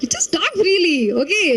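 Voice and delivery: imitating funny Subhash. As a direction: tease the newcomer like a jolly director. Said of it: "And then when he's funny, he'll be like".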